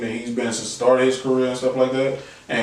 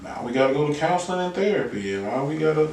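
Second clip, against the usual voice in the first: mock pleading partner; 3 semitones higher, 5 dB quieter than usual. Acted partner suggesting couples therapy.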